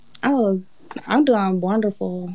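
smooth, soft, laid-back cool delivery. Retelling how a woman answered a greeting, imitating her smooth cool voice. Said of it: "with this like smooth ass voice".

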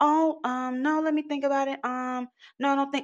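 mock very high, flustered, hesitant nervous stammer. Retelling a woman turning down a photographer: imitating a nervous woman. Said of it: "the nervousness in her voice".

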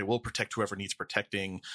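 normal talking voice

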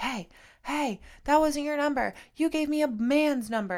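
mock high-pitched yell, calling out. Retelling a man calling out in the parking lot: imitating someone yelling. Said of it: "he's yelling for me".

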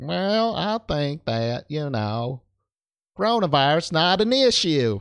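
put-on dumb American accent. Showing the default accent used to mock Americans; dumb American accent. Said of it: "the dumb American accent".

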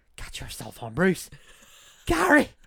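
put-on Irish accent. Joking in a group about a name, in a put-on irish accent. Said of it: "You got to say that with the Irish accent".

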